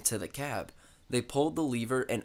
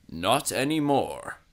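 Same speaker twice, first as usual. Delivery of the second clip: smirking; 5 dB louder, slower than usual. A narrator's reading. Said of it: "Sir Topham Hatt smirked".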